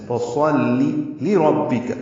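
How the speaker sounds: very slow فصلی لربک, heavy ص, light ل; tajweed demo. Shown as a demonstration. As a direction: draw out فصلی لربک, ص full and ل thin. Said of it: "فا کو جلدی پڑھنا ہے". (فصلی لربک آہستہ، صاد پر اور لام باریک)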